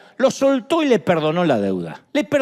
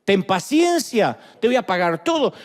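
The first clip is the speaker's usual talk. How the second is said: pleading. Retold or imitated. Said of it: "hace lo mismo que hizo él".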